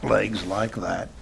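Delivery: hypnotic induction. Acted. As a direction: lull her down gently.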